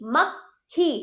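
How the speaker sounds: मक्खी split mak-khee; light stop on क in मक्खी; correct half क. Shown as a demonstration. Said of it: "हल्का सा उच्चारण क".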